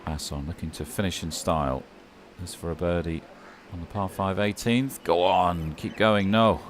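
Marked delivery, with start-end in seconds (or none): 5.0-6.6 louder, rising urging of a rolling putt; will the putt in, then deflate; urging the ball on. Real, not acted. Urging a putt toward the hole.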